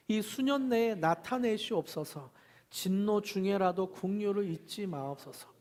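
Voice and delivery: solemn group recitation of a prayer; scripture reading aloud. Acted. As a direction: recite the prayer together with the congregation. Leads group Bible reading.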